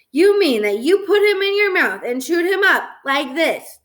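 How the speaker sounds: put-on high, emphatic questioning of a toddler; incredulous mother. A narrator's reading. Mom incredulous, miming chewing.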